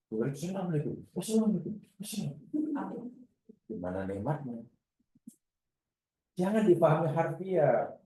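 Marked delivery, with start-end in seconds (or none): 0.1-3.1 mock boring greeting. Shown as a demonstration.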